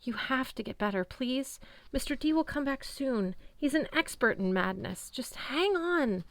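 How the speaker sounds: tearful plea; close to tears. A narrator's reading. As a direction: hold back the tears. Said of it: "close to tears".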